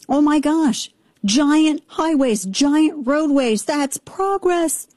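slow, high gushing over highways; slow delighted praise. Real, not acted. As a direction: savour each word with glee. Gushing about the land of plenty.

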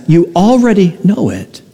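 lightly voiced Vietnamese accent; a hint of a Vietnamese grandmother's accent. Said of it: "in her Vietnamese accent".

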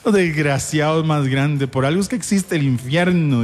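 slow, drawn-out indignant scolding; imitated wounded reproach; Jessy. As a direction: curse the pranksters with stretched words. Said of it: "limpiándose las lágrimas".

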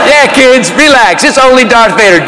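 dry mock calming of the kids; sarcastic echo. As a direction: echo the clown, unimpressed.

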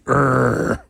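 short growly "err"; frustrated growl. Shown as a demonstration. Voicing frustration with a noise.

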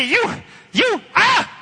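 sudden high yelp of fright; mock scared yelp; startled yelp. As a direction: jump at the sight of the child. Villain startled by child.

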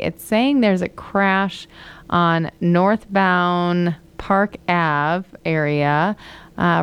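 numb mouth after a tooth pull; marbles in mouth. Real, not acted. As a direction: talk round a swollen jaw. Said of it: "If you thought I had marbles in my mouth today".

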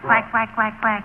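mock duck quacks; quacking like a duck. Hunter imitating a duck to call the flock, mock quacks. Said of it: "you have to quack like a duck".

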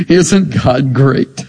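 slow and low, chuckling through it; laughing. Retold or imitated. Esther imagined marvelling at God at the banquet, laughing. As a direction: savor it with a delighted laugh.

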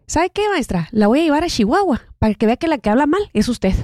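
high, defiant talk-back to a teacher; a retold classmate's bold comeback; defiant retort. Student defiantly talking back to her diction teacher, high retort. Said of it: "se levantó y le dijo".

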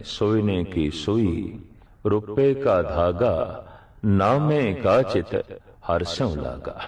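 slow, measured verse quotation; scripture recitation. Acted. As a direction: recite the sacred line slowly, phrase by phrase.

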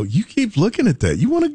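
high, swooping coaxing voice; acted husband's rising, tempting offer. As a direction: pitch it up to nudge someone gently. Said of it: "And you go".

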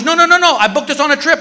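high, bright mock wife voice; hammed-up excited wife; mimicking his wife. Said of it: "She goes".

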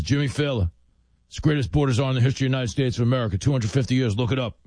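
rushed, gravelly mock boast; Tom Homan impression. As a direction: imitate a ridiculous gravelly voice on the phone. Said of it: "your gravelly, ridiculous voice".

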